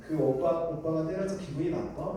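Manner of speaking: retold soft question with a rising end; gentle, kindly. Father asking the hurt child after his tone changed, gentle and kindly. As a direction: soften into a parent's tender asking. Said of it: "그 아이한테 상냥하게 물었습니다".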